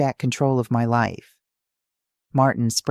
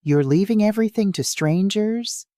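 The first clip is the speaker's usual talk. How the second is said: screaming; 9 semitones higher than usual. Acted. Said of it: "Diana screams".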